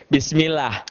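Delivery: "bismillah" slow, ending in open "-lah"; unhurried, thin-L "bismillah". Shown as a demonstration. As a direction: say "bismillah" with light L and A vowel. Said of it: "Dibaca tipis".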